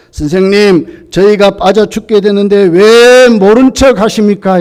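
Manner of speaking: complaining. Retold or imitated. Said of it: "이거 원망입니다".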